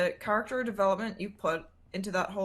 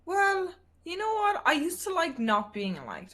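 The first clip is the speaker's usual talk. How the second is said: mock dramatic; 8 semitones higher than usual.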